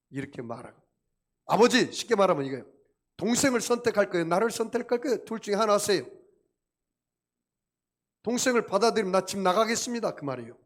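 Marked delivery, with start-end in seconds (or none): 1.5-10.2 loud, fast, higher demand to his father; the elder son shouting at his father, fed up; angry ultimatum. Retold or imitated. Elder son shouting his ultimatum at his father, angry and fast. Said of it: "화를 내면서 안 들어간다".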